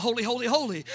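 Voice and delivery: soft, reverent triple holy; quiet worshipful holy; hushed holy. Retold or imitated. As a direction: breathe it in awe. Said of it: "he realized".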